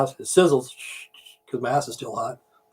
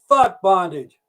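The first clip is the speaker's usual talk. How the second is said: high-pitched curse with falling end; repeated punchline; 4 semitones higher, much slower than usual. Retold or imitated. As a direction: cry it out high, less drawn out.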